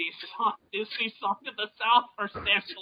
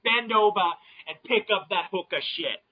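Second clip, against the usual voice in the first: mock Boston-Jersey scolding rant; Boston-Jersey accent. Host ribbing the late guest, mock Boston-Jersey accent. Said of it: "speaking in some sort of a Boston dash".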